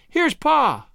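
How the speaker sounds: high, excited call. A narrator's reading. Roxy announces her father's arrival, calling out high. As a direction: call it out to the house. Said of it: "when Roxy called out".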